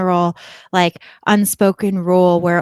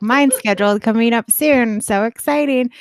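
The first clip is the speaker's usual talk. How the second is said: higher-pitched acted-out excitement; exclamation-point enthusiasm; 4 semitones higher, 4 dB louder than usual. Texting the neighbour about a vaccine shot, acted-out excitement. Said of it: "I put exclamation points".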